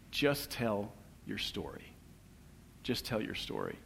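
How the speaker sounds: soft, slow, hushed encouragement; a friend's soft murmured counsel; gentle advice. Retold or imitated. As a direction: ease the words out quietly, like a kind nudge.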